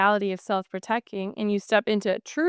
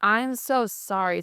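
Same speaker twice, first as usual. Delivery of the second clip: passive apology; slower than usual. Retold or imitated. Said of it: "that's so passive".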